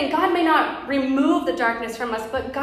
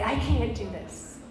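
retold crying; 6 dB quieter, slower than usual. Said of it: "I would just cry and say".

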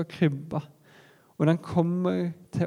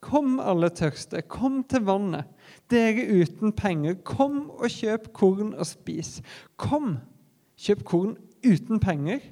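mildly raised, higher calling voice; 3 semitones higher than usual. Acted. God calls the thirsty to come without money, calling out. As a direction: call out an urgent invitation. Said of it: "det lille barnet i krybba roper".

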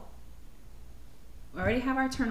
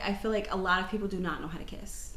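whisper; 6 dB quieter than usual. Real, not acted. Confiding about bad kissers.

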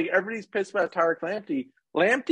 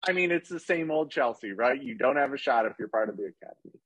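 dry, fast sarcastic jab; 3 semitones lower, 4 dB quieter than usual. Acted. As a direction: say it with mock sincerity. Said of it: "That was sarcasm".

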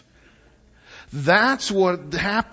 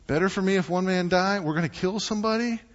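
shocked disbelief; 5 semitones higher, faster than usual. Acted. Listener's shocked reaction.

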